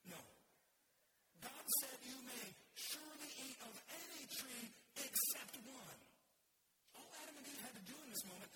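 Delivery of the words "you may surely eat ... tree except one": "surely" and "any" drawn out, higher; slow, weighty emphasis up to "except", dropping on "one"; emphatic. Shown as a demonstration. Preacher correcting the serpent for the church, emphatic "surely". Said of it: "It is emphatic".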